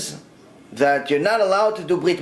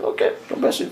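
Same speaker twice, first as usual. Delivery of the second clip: whispered agreement. Retold or imitated. Woman grudgingly agrees.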